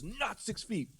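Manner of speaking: high, insistent mock yell; retold yelling. Neighbor to the man behind him, high retold yell. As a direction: scold him, pitched well up. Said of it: "he was yelling at a Hispanic guy".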